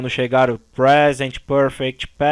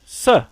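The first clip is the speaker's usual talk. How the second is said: SUF cut off alone, higher than usual; stressed syllable alone; 4 semitones higher than usual. Shown as a demonstration. Teacher pointing out the tonic syllable, SUF stressed alone. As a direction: isolate the strong SUF of SUFFER. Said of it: "A tônica está no".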